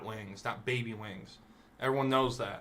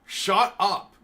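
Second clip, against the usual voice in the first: louder, higher mock shout at the baby; mock yell; 6 semitones higher, 7 dB louder, slower than usual. A fed-up parent yelling at a crying baby, in a mock shout.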